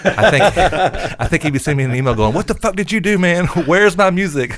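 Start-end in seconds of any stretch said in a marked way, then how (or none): 2.3-4.6 high-pitched, half-laughing rant; mock outrage. Imagined email from bandmate missing his music, mock outrage. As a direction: imitate an indignant bandmate, voice pitched up.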